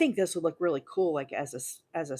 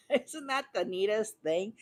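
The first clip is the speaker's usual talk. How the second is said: excited; 4 semitones higher, 3 dB quieter than usual. Real, not acted. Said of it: "I'm so excited".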